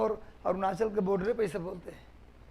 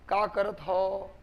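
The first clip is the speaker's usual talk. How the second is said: Braj dialect; 2 semitones lower, much slower than usual. Shown as a demonstration. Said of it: "Braj बोल सकता हूँ".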